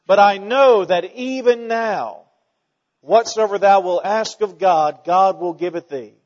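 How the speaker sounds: earnest Martha. Acted. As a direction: declare it with conviction. Martha's statement of faith voiced.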